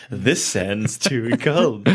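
slow, fussy complaint; fussy Goldilocks. Pretend. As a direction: drag out cold like a picky child. Goldilocks parody.

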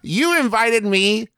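mock indignant. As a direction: play up being wronged by a brother. Mock quarrel over a concert invitation.

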